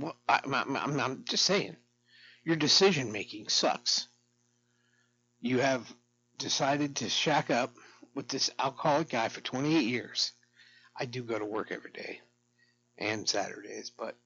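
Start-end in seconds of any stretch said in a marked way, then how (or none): 0.0-10.3 louder, pushy retort; retold argument. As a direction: argue back, raised and insistent. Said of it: "And I said".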